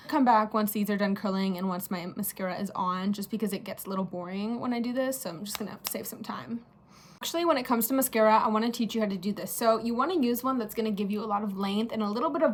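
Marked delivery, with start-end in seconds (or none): 5.2-6.6 whispering. Real, not acted. Aside while curling lashes.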